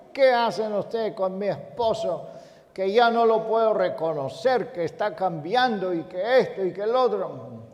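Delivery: reclamo en tono más agudo, sin gritar; regaño imitado. Retold or imitated. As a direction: imita a una esposa que regaña. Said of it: "y gritó y nos regañó". (esposa que reclama, imitada)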